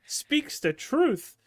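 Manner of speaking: high, slow, triumphant; drawn-out cheer. Real, not acted. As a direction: stretch it out like a proclamation.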